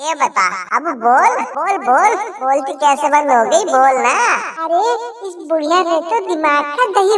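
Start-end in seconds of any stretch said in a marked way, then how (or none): 0.1-4.1 put-on a lower, needling old mother-in-law; mother-in-law taunting her bahu, lightly lower voice; lightly voiced taunting mother-in-law. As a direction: goad the daughter-in-law, a touch lower.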